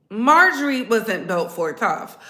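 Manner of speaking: ordinary talk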